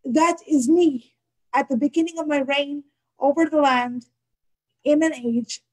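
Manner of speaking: measured poem recital with long pauses; poetry reading. Acted. Poet reads her poem to an online audience, solemn poetry reading. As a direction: read it deliberately, phrase by phrase.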